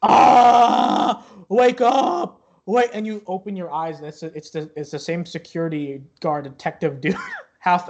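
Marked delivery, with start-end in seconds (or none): 0.0-2.9 loud, high yelling at a sleeper; annoying high-pitched wake-up shout; irritating voice. Acted. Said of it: "very irritating, annoying voice".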